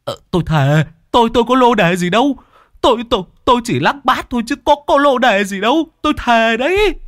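high, fast flustered stammer; high rapid stuttering denial; deaf old man swearing innocence. A narrator's reading. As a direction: protest innocence half-hearing. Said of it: "nghe được câu chăng".

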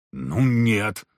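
grudging admission through gritted teeth; reluctant. A narrator's reading. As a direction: concede it unwillingly. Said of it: "Скрипнув зубами, Никодим нехотя ответил". (нехотя, сквозь зубы)

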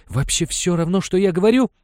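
loud, high incredulous cry; can't believe she won't listen; disbelief. A narrator's reading. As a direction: son shocked that his mother ignores him. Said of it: "не поверил Венчура".

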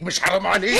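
high, crying appeal; husband begging his wife to stop, tearful; tearful plea. Acted. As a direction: break down on the plea.

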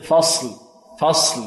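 فصل with a full emphatic ص; heavy sad. Shown as a demonstration. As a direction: make the ص in فصل thick and heavy. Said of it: "عندنا هنا الصاد مفخم".

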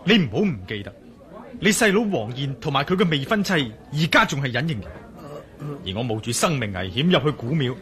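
rising alarm till he nearly shouts; agitated. Acted. Urgent explanation rising to shout. (越講越激動)

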